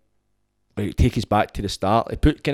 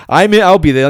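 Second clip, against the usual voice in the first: fake cheeriness; 8 semitones higher, 10 dB louder than usual. Fake cheery reply to guest.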